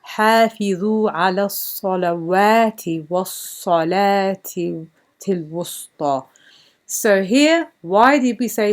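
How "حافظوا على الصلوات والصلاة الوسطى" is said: lightly recited Arabic verse; Quran recitation. Shown as a demonstration. Teacher reciting the verse for students, measured and lightly intoned. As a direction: recite the ayah in a measured reading voice. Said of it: "And here we'll say".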